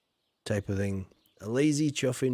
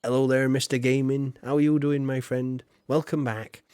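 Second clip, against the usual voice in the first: proper English greeting; 4 dB louder than usual. Retold or imitated. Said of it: "proper English thing".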